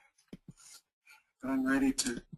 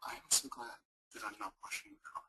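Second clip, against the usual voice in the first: whisper; 7 dB quieter, faster than usual. Acted.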